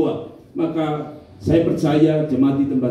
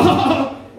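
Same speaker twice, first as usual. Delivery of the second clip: mock coughing fit; 9 semitones higher than usual. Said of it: "Dia tambah".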